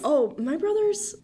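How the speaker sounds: repeating brothers in a lilting Irish accent. Shown as a demonstration. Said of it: "Your brothers?".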